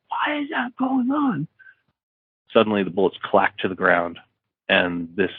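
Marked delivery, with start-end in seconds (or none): 0.1-1.5 high, piercing scream. Retold or imitated. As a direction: shriek the question in panic. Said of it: "scream like".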